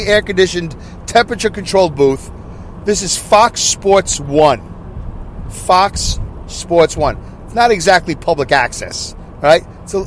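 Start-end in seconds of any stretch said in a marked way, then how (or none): 2.8-7.2 slow, drawn-out TV sports announcer. Retold or imitated. Podcaster to listeners, naming the channel like a slow mock announcer. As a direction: stretch it out like a network ident.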